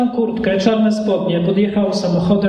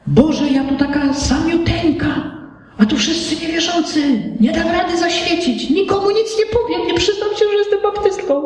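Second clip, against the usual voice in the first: mock the shy church lady who's too scared to admit her faith, squeaking higher and higher; hammed-up frightened woman, pitched far up, plaintive and small; timid lonely believer; 8 semitones higher than usual. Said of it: "ta bojaźliwa żarówka".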